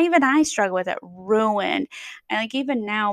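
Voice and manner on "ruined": "ruined" said as two clear syllables, roo-ind; slow careful "ruined", both syllables full; corrected "ruined". Shown as a demonstration. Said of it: "you have to say".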